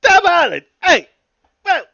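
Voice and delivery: high, loud mock gasp; mock amazement. Fan fooled by an accent in a high loud mock gasp. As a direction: gasp in fake awe.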